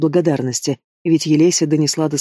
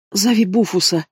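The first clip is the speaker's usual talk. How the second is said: higher, strained call for help; croaked; 4 semitones higher than usual. A narrator's reading. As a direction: croak it out in pain. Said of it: "прохрипела я".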